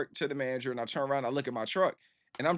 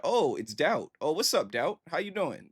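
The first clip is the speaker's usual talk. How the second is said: friendly greeting; 5 semitones higher, 3 dB louder than usual. Acted.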